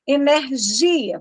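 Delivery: Energia said slowly, syllable by syllable; slow separated syllables in Energia; syllable demo. Shown as a demonstration. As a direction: stretch out Energia to show its syllables. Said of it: "vamos separar".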